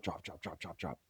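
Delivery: very soft repeated drop; counting down pounds, softly; dropping fade. Real, not acted. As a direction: let each drop fall away. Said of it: "emphatic repetition".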